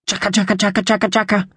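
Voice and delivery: high rattling magpie chuckle between sobs; throaty chuckle. A narrator's reading. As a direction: chatter out a magpie's tearful chuckle. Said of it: "managed a throaty chuckle between sobs".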